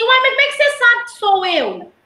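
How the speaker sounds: a student baffled at being recognized; puzzled student. Retold or imitated. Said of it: "Ele fala assim".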